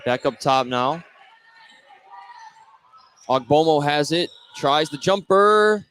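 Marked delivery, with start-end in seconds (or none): 4.5-5.9 high, drawn-out call on the shot; shot suspense. Real, not acted. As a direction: hang on the last word while the ball flies. Calling a jump shot live.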